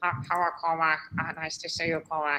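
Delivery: droning, lifeless, flat, dull boring monotone. Recalling a woman with a boring voice, the speaker imitates her low boring voice. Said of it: "It was like it was like a low voice, and it had the same strange tone".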